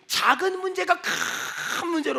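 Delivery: 큰 drawn out long with a rush of breath; stress on 큰. Shown as a demonstration. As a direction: stretch 큰 to sound huge. Stretches the word for big. (큰을 숨 섞어 길게 늘여 강조)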